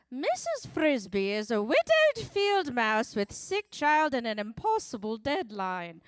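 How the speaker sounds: a lightly put-on, mock-grand funny voice; hammed-up book blurb, only a touch off her own voice. Host announcing the next book to the crowd, in a light funny voice. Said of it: "I'm gonna do it in a funny voice".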